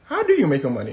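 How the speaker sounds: loud, emphatic mock question; crowd echo. Everyone turns on Hush Puppy, loudly questioning. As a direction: demand it loudly, as the whole crowd.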